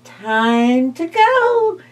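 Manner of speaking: slow, small bat voice; sleepy bat. Acted. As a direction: say it slowly like a tired bat. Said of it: "said the bat".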